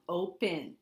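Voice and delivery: "open" with the E said like a short I; schwa sound. Shown as a demonstration. Teacher showing the vowel in disguise, "open" said as "OH-pin". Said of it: "It sounds like it should be an I".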